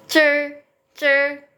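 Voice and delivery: "cer" held high and level, lips not pushed out; "cer" high and even, no pout; unrounded lips. Shown as a demonstration. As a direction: say "cer" as a teacher's model syllable, lips relaxed. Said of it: "nggak ada monyong-monyongnya ya".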